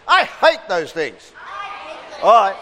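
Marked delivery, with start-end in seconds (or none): 0.1-1.3 "I hate those things" with I stressed and falling. Shown as a demonstration. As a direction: lean on "I" then fall. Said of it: "say it like that".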